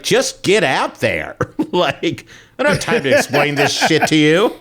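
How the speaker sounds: high-pitched, exasperated retelling of a panic; mock-frantic urgency. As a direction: plead frantically, half laughing. Acting out urgent backstage order.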